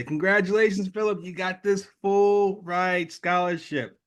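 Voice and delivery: a lightly voiced proud official; upbeat committee announcement. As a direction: announce the prize like good news. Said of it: "They say".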